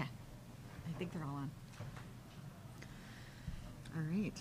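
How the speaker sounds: soft, hushed voice; whispering. Real, not acted. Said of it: "We're, like, whispering over here".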